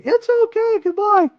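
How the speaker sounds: very high, sweet alien farewell. Acted. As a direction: squeak a gentle goodbye as the alien. Alien answers his goodbye.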